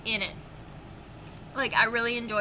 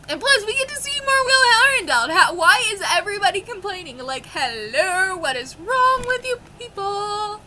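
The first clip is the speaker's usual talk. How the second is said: much higher, louder, near-tearful rant; excited fangirl rant; 9 semitones higher, 7 dB louder than usual. Real, not acted. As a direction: burst out in exasperated fangirl joy.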